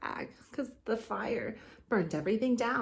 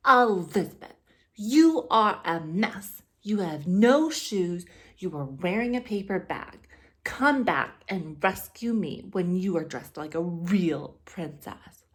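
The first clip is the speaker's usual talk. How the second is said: snooty scolding; 5 dB louder than usual. Acted. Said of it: "Ronald came out and said".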